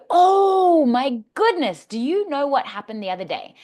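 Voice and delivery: big high gasp then eager question; excited gossip. Shown as a demonstration. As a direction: thrill a friend with news. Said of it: "Isn't that way more exciting".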